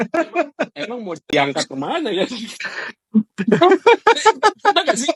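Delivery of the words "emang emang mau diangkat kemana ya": amused inner thought. Retold or imitated. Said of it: "Ini dalam hati gue".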